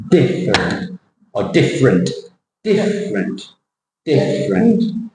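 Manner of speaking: different with DIFF stretched, then a short -rent; stretched first syllable. Shown as a demonstration. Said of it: "by using an elastic band".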